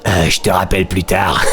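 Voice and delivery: lines broken up by a laugh; can't keep a straight face reading it; laughing through the line. Acted. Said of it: "j'ai envie de lui faire une voix de".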